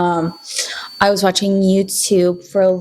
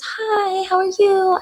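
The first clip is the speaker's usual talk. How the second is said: dad; 12 semitones higher, slower than usual. Retold or imitated. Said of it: "He goes".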